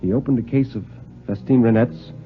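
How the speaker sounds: grave, measured storyteller's voice; story narration. A narrator's reading. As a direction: read it like a tale that's heading for disaster.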